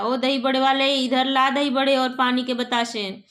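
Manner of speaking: a carrying shout toward the street; loud call. Acted. Uncle turns and hails the dahi vada seller, loud call. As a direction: raise the voice to hail the vendor. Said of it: "जोर से आवाज़ देता".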